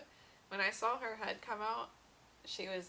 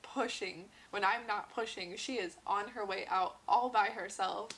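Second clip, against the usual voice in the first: indignant protest; 3 semitones higher, 6 dB louder than usual. Retold or imitated. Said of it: "I was like".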